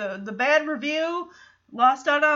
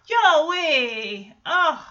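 loud, drawn-out mock-exasperated call; 5 dB louder than usual. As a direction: groan at someone's foolishness, half in play. Teller scolds the character Joey.

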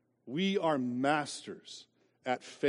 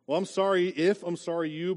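fake apology; 4 semitones higher, 4 dB louder than usual. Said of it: "I need to do a better job".

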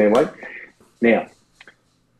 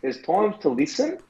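Shaq voice; 4 semitones higher than usual. Pretend. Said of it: "doing your Shaq voice".

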